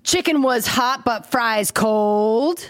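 COLD stretched out long; mock slam poet, dragging the last word; hammed-up poem reading with drawn-out ending; slam poetry. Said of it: "Slam poetry".

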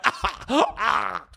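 high cries of pain; acted pained wail. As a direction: moan high as if hurt in the mouth. Wailing with bleeding mouth.

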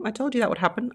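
smug gloating. Retold or imitated. Gloating phrase acted.

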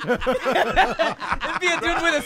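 loud, high voice full of laughter; high, loud, laughing riff; cracking up. Real, not acted. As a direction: barely get the joke out for laughing. Cracks up imagining absurd court case.

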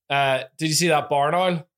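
Northern Irish "barn owl" said properly; Northern Irish retake, owl as oil; Northern Irish accent. Shown as a demonstration. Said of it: "I said barn wrong".

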